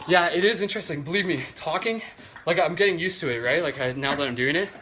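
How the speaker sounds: slightly out of breath mid-workout; working out while talking. Real, not acted. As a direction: talk between reps, catching breath. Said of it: "talking while working out actually is".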